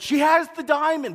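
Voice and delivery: loud sudden shout across the theater; yelled out. Retold or imitated. Man in the back row shouting to the crowd, loud yell. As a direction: blurt it out at full volume. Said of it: "this man at the back yells out".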